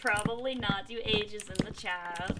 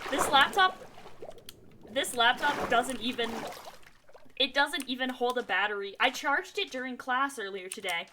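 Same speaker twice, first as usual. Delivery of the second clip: exasperated rant; 3 semitones higher, 4 dB louder than usual. Real, not acted. Ranting about laptop.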